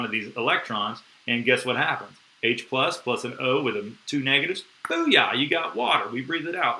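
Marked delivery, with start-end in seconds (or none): 4.9-6.8 excited booyah. Real, not acted. Teacher cheering students on, excited. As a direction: burst out booyah with a lift in pitch. Teacher celebrating water forming.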